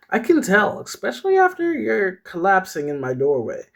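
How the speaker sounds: pointed, high-voiced friend; scolding friend. Clarice's reply voiced in story.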